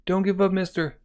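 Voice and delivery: put-on high child's cheer; cheering kid. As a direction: shout encouragement like a small child.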